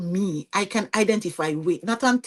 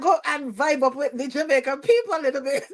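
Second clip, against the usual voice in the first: laughing; 4 semitones higher than usual. Real, not acted. Laughs at own plan.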